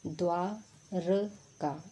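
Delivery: द्वारका stretched out, every sound held long; very slow dictation. Shown as a demonstration. Teacher to exam students, dragging out द्वारका. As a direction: spell द्वारका out syllable by syllable. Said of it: "जब भी exam में आएगा".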